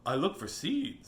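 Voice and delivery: very high slow chirpy bird; silly sparrow. Acted. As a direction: squeak it like a tiny bird. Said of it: "says the sparrow".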